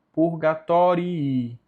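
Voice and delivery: "purgatorii" with a long double "i-i" at the end; both Is pronounced. Shown as a demonstration. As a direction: sound both final Is of "purgatorii". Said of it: "os dois têm que ser ditos". ("purgatorii" com os dois Is ditos)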